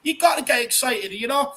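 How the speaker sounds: high-pitched, buzzing fan rant; excited hype. Real, not acted. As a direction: pump everyone up for the big night. Hyping Champions League return.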